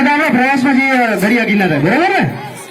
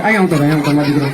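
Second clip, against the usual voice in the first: low, soothing teacher voice; consoling; 8 semitones lower, much faster than usual. Acted. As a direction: coax the crying child over, voice dropped low. Teacher consoles crying pupil.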